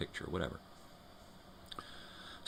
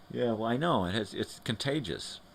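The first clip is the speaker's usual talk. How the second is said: laughing; 7 semitones higher, 5 dB louder than usual. Real, not acted. Still laughing.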